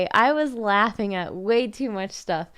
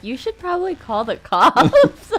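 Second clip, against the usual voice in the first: laughing; 10 semitones higher, 11 dB louder, slower than usual. Retold or imitated. Retelling Dan's advice, laughing.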